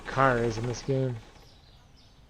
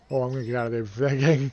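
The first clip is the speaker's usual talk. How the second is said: ordinary talk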